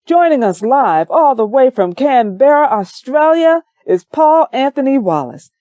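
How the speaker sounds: a hint of a cheery on-air welcome; radio host intro. Radio host welcoming his guest live on air, lightly voiced.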